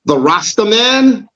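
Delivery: imitating people who expect a Rasta man; mocking questioners. People pushing the stereotype on him, mock questioning voice. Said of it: "They say".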